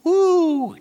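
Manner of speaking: high mock-excited woo; mock cheer. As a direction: whoop like a thrill-seeker. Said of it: "I got this hobby".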